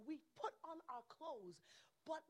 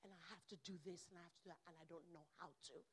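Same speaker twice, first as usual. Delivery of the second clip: mild overwhelmed outpouring; 6 semitones lower, 11 dB quieter, faster than usual. Retold or imitated. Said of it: "burst right there and say".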